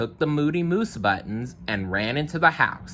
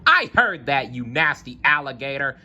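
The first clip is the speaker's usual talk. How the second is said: screaming; 5 semitones higher than usual. Acted. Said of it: "screamed Moose".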